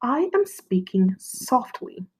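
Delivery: soft, slow demo voice; gentle model line, slow and soft; speaking softly. Shown as a demonstration. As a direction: hush it down for the class. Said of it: "Let's say that one more time".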